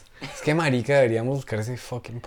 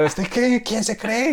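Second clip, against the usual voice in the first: mock-offended, much higher-pitched kid; indignant challenge; 9 semitones higher, much slower than usual. Kid confronting a newcomer over a ball, indignant. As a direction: imitate an affronted boy picking a fight. Acted angry kid in retold quarrel.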